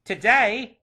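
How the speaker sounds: put-on high, loud, astonished boy; lad's surprised echo. A narrator's reading. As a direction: answer as an amazed lad. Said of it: "replied the boy".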